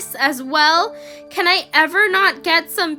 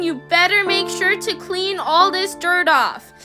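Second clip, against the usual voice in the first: high, loud contemptuous tirade; raging scolding; 7 semitones higher, 3 dB louder than usual. A narrator's reading. Vendi berating the girl, raging and high. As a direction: berate her without pause. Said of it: "she rages on".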